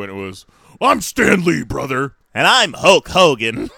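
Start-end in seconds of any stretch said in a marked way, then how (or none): 0.8-2.1 loud, higher wrestler's boast; Hulk Hogan. Retold or imitated. Wrestler swapping names with Stan Lee, hammed-up impersonation. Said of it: "they did the old switcheroo". 2.3-3.7 loud, higher showman's announcement; Stan Lee. Retold or imitated. Comic-book legend posing as a wrestler, hammed-up impersonation. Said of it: "they did the old switcheroo".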